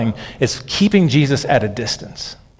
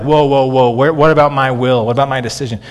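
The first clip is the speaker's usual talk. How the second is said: mock protest; 3 dB louder than usual. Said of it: "everyone gets all tense and upset about things like".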